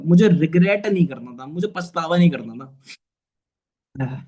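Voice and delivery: slow, choked-up words, voice breaking; holding back tears while remembering hard days; getting emotional. Real, not acted. To his team, remembering hard days, says it slowly, choked up. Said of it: "मैं थोड़ा emotional हो गया".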